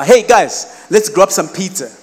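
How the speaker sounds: rally the group for a treat; cheery invitation. Retold or imitated. Friend inviting broke students out, cheery call.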